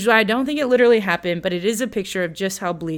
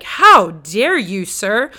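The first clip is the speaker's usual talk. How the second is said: mock indignation; 6 dB louder, much slower than usual. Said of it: "David's like".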